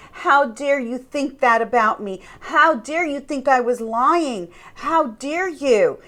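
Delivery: mock affronted accusation, slowing at the end; accusing. Narcissist challenged about lying, mock indignant accusation. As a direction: act wounded and accusing. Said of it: "Or they will accuse you".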